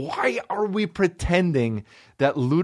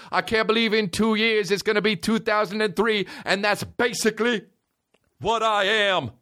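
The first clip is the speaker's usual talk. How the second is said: a bit higher rapper musing; understated rapper impression; lightly voiced mock rapper; 3 semitones higher than usual. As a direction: muse like a mock rapper.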